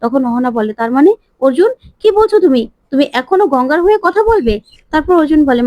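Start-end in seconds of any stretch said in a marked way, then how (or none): 0.8-4.5 shocked protest. Acted. Ahona, stunned, challenges Arjun for defending Ganga, high indignant disbelief. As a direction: pitch jumps up on কি বলছো তুমি, indignant disbelief.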